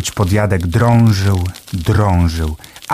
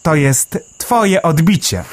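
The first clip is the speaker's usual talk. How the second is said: a small bird marvelling, pitched way up; Melek the sparrow; 8 semitones higher than usual. A narrator's reading. Sparrow Melek marvelling underground, high chirpy voice.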